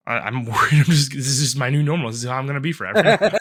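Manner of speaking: laughing while talking; half-laughing through the words. Real, not acted. Joking about endless sickness.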